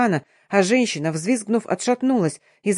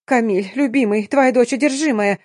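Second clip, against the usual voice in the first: gabbling; 5 semitones higher, 3 dB louder than usual. Acted. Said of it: "затараторила она".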